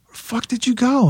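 high surprised call. Retold or imitated. Greeting the returning drummer, surprised. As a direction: shout across the shop at him.

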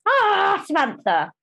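high, delighted "Ah" trailing down; gushing greeting. Retold or imitated. People greeting public Samantha with high gushing delight. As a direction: fans gushing over her name. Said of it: "all they see is this".

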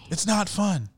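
voiceless little whisper; whispered protest. Real, not acted. Host still grumbling to the co-host, now whispering. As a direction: repeat the complaint under the breath. Repeats complaint under breath.

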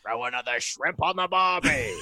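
slow, hammed-up Australian accent. Shown as a demonstration. Guest shows off his Australian accent to the hosts. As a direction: drawl it out like a stock Aussie. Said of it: "I do an Australian accent".

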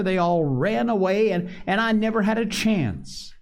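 put-on Piggy scolding the boys. A narrator's reading. Piggy pleads his case.

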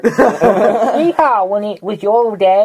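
put-on high, loud hollering old-timer; old prospector. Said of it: "two old people have a conversation".

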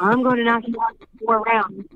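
put-on cocky kid boxer boast; cocky breathless boxer boasts. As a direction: brag it like a mini Ali. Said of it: "why are you talking like that".

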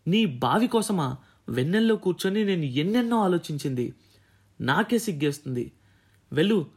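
a storyteller's voiced tirade from a furious teacher; disgusted scolding. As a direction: tell him off, contempt building. Teacher scolds the student over marks.

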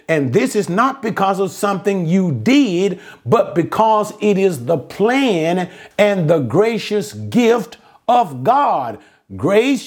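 rising and falling pulpit cadence; emphatic preaching. Real, not acted. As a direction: preach each phrase with weight on the key words. Preaches salvation by faith.

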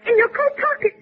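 frightened pleading. Acted. Frightened woman begging for envelope.

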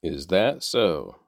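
slow, scornful retort. Acted. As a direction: drag it out, mocking the request. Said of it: "retorted Pharaoh".

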